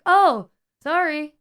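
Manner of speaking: slow, drawn-out mock sheepish "sorry"; mocking apology. Customers' lame apology imitated mockingly, drawn out. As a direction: ham up their limp apology. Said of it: "And they're like".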